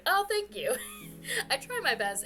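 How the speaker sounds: ordinary delivery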